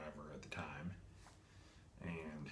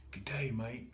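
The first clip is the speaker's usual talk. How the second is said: quick mock Australian greeting, a bit higher and louder; Australian accent; 5 semitones higher, 4 dB louder than usual. Collector jokingly voicing his figure as Australian, mock Australian accent. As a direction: toss off a jokey Australian accent. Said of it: "No, that's Australian".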